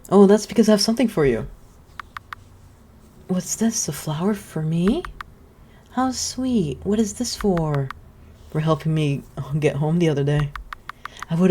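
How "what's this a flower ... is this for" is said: a hint of a sweet, delighted witch; lightly voiced touched witch. Witch receiving the boy's flower, lightly touched. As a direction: play the witch charmed by a gift.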